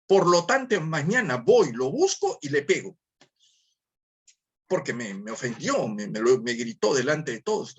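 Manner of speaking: a touch of wounded pride, half-acted; offended indignation. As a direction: play someone who won't let anyone raise their voice. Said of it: "Y otro dirá".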